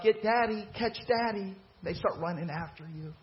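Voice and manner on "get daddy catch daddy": playful daddy chase game. Retold or imitated. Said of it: "And you're like".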